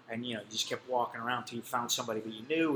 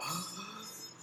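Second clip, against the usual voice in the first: high, breathy mock gasp; shocked gasp; 8 semitones higher, 8 dB quieter than usual. Police gasping at the lawyer's words, high mock gasp.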